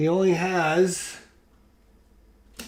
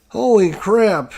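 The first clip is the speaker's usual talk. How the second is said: slow, higher amazed exclaim; stunned disbelief; 5 semitones higher, 4 dB louder, slower than usual. Real, not acted. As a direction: marvel at the luck. Disbelief at surviving.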